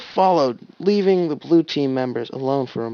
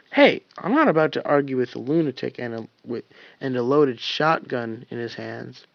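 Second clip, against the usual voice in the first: dismissive. Acted. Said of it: "Tucker said dismissively".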